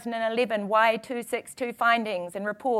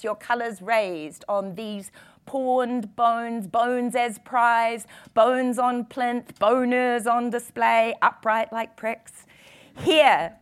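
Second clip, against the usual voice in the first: poem reading. Acted. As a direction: read it like a spoken-word poet on stage. Reads her poem aloud.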